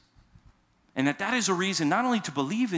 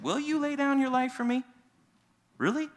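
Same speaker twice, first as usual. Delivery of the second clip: incredulous Jesus; 9 semitones higher than usual. Pretend. Jesus questioning Peter.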